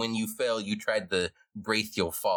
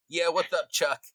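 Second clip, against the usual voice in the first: higher-pitched casual rat reply; rat pals answering; 8 semitones higher than usual. Acted. Two rats greeting their friend from the holes, casual. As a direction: answer your pal in a lightly pitched-up rat voice. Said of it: "they come out and go".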